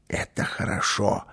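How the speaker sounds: soft whispered approval. A narrator's reading. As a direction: whisper it, keeping hidden. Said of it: "прошептал Карлсон". (тихим шёпотом)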